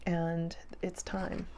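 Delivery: slow, soft whisper; hushed, slow and meaningful; whispered emphasis. Real, not acted. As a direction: lean in and whisper it.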